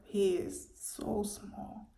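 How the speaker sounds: whispered, barely voiced; soft whisper. Husband whispering comfort to his wife in hospital. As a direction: hush it like a gentle secret.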